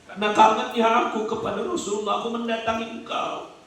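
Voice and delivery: lightly voiced Abu Bakar, sharing the grief; Abu Bakar replying. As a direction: answer gently through your own longing. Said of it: "Kata Abu Bakar Siddiq".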